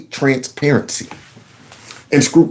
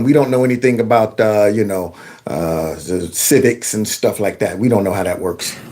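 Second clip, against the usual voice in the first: mocking dumb voice; 9 semitones lower, 4 dB quieter than usual. Host mocking the pundit's view of viewers, dumb voice. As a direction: drop the voice way down and sound clueless. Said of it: "he thinks we're dumb".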